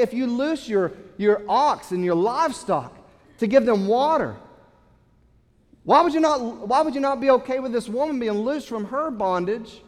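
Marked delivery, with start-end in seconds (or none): 5.8-9.8 rising preaching appeal. Real, not acted. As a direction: press the question hard to the congregation. Preacher presses the question.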